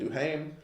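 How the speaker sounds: Duhaime retried as doo-HAME, rising; tentative pronunciation. Real, not acted. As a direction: sound out Duhaime in two syllables, rhyming with name. Third try at the surname.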